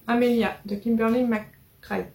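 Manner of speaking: slow, careful English accent on the names; self-mocking bad English accent. Shown as a demonstration. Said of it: "j'ai un accent anglais complètement pourri".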